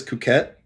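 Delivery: Cuquette said "koo-KET", like Duquette; tentative pronunciation. Shown as a demonstration. Asking how the word is pronounced, Cuquette tried as "koo-KET". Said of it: "is that how you pronounce".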